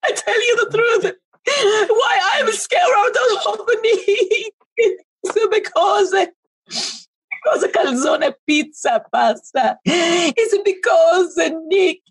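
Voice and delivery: hammed-up sobbing shout; mock crying. Madam fake-sobbing over Nick's bad choices. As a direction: wail it out like a wounded fortune teller. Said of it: "I'm sorry for crying".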